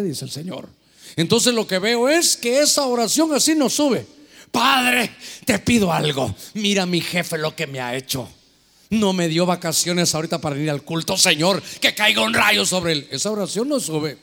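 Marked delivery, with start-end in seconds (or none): 4.5-13.1 angry prayer. Retold or imitated. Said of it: "Lleva ira, lleva ira".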